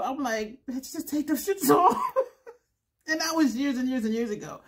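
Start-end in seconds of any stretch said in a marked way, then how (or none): 0.7-2.1 high quote with laughter in it; laughing, exasperated retort. Retold or imitated. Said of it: "I'm laughing so hard". 3.1-4.6 teary laugh easing into words; calm down through tearful laughter; tearful giggle winding down; laughing to tears. Real, not acted. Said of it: "I'm starting to cry".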